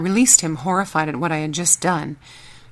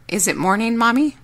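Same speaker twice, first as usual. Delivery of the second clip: put-on high rising little boy question; sleepy child asking mom; 5 semitones higher, 4 dB louder than usual. Sleepy child asks mother.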